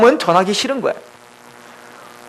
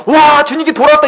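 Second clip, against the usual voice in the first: imitated joyful exclamation, pitched higher; rejoicing; 4 semitones higher than usual. A believer rejoicing at Nineveh's revival, acted joy. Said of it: "아멘하고 기뻐하고".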